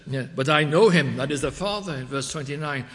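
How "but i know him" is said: raised voice, quoting Jesus; crying out. Retold or imitated. Preacher quotes Jesus speaking to temple crowd, crying out. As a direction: project it loudly as a public declaration. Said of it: "he cries out".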